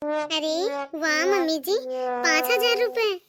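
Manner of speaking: drawn-out, thrilled exclamation over a gift; wowed, savouring the words; delighted amazement. Acted. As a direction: marvel slowly at the money. Daughter-in-law delighted by cash gift.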